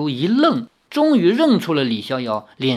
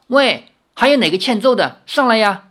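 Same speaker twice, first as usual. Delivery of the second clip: bored challenge; 7 semitones higher, 4 dB louder than usual. Acted. Bored young lady challenges the crowd.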